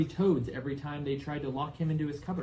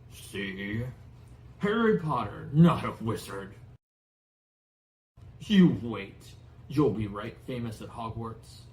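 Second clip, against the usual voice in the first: loud, proud and pleased; triumphant beaming; 5 dB louder, slower than usual. Acted. Hagrid beaming at Harry, loud proud delight. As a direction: crow with delight.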